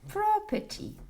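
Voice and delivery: English word in a French accent. Real, not acted. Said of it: "excusez-moi, mon accent anglais".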